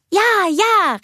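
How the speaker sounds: put-on high, loud eager child; giddy little sister; gleeful call. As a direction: cry it out while tickling her. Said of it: "rief Anna".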